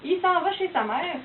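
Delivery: "il s'en va chez sa mère" with "il" clipped to "i"; light Québécois accent. Shown as a demonstration. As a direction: say it "i s'en va" like a local. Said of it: "un Québécois qui dit".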